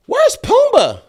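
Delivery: high, loud anxious question; high worried mother voice. Retold or imitated. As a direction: call out worried for the boy. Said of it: "She say".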